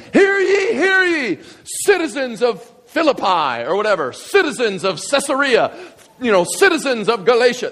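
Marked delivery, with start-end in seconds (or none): 0.1-3.6 high, ringing proclamation call; town crier. Retold or imitated. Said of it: "their job was to proclaim". 4.1-7.7 town crier. Retold or imitated. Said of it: "their job was to proclaim".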